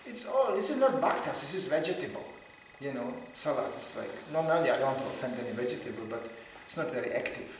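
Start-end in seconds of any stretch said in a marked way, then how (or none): 0.0-2.2 much higher astonished cry; imitating a shocked senior devotee; mock dismay. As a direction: exclaim it in disbelief. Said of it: "He said".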